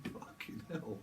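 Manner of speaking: slow, loud laughing what the hell; laughing disbelief. Real, not acted. Psychic cracking up at her own reading. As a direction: laugh through it in real disbelief.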